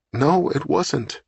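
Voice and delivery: put-on high, slow, childlike denial; innocent and childlike. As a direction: draw it out small and innocent, like a little girl. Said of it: "sounding innocent and childlike".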